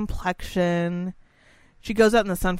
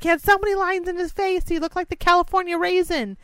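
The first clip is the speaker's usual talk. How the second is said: much higher, fast valley girl impression; 11 semitones higher than usual. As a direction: squeal it like a California valley girl. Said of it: "She sounds like a valley girl".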